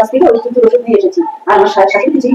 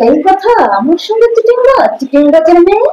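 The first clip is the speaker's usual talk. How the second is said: slow, drawn-out indignant accusation; indignant scolding; 4 semitones higher, slower than usual. Acted. Mother-in-law fuming at the scheming daughter-in-law, slow indignant accusation. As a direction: spit out the insult slowly, high and wounded.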